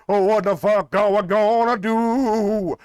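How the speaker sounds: hammed-up panic from a busboy; mock busboy scream. Busboy screams at the choking grandma, mock yell. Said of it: "The busboy screams in Spanish".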